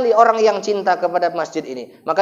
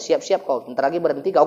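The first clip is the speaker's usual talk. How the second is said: low quiet threat; 7 semitones lower, 8 dB quieter than usual. Retold or imitated. Threatening the officer, retold.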